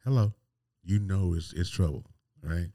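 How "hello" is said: curt, clipped-off hello, higher; icy hello; cold hello. Retold or imitated. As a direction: say it like trouble is coming. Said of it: "it goes from that to".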